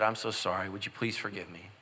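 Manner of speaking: meek apology. Retold or imitated. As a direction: beg forgiveness almost under your breath. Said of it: "I said".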